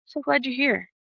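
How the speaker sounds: softly welcoming, a little quiet. Retold or imitated. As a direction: greet her gently, soft and kind. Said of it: "It was literally like".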